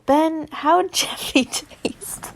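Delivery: slow teasing, laughing through it; laughing taunt. Acted. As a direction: tease him while laughing.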